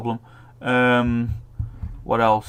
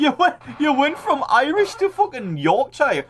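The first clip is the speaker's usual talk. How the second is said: high, laughing tease; 14 semitones higher than usual. Real, not acted. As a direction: laugh through the mockery. Laughing at the failed accent.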